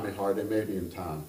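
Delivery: Kentucky gentleman echoing himself gently; Kentucky accent. Acted. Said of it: "I'm going to attempt that kind of accent".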